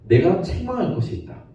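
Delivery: lightly voiced stern Lord correcting the church; rebuking Jesus. Jesus rebuking the Ephesian church, lightly stern. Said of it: "라고 책망하세요".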